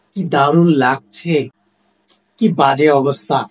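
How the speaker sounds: slow, drawn-out mock exclamation; understated, lingering astonishment; demonstrated amazement. Shown as a demonstration. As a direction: show wonder by stretching the words. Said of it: "বিস্মিত হয়ে যখন কোনো কিছু বলি".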